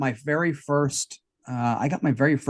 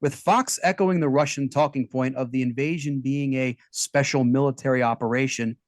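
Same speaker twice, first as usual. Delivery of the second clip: news read. Acted.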